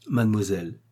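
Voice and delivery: restrained, composed address; measured, self-controlled appeal; forced calm. A narrator's reading. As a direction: summon all the calm you can. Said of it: "avec tout le calme que je pus trouver".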